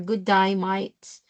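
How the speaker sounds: mimicked Aussie "Good day, mate", like "die, mite"; Australian vowels in "day" and "mate"; Australian accent. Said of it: "Australians are far more difficult".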